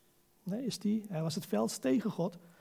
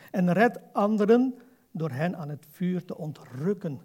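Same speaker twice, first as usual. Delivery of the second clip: scripture reading; 3 semitones lower than usual. Acted. Reads scripture to the congregation.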